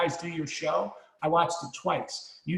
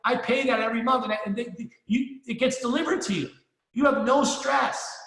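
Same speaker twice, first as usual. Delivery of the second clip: retold emphatic reassurance; 5 semitones higher than usual. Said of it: "I go".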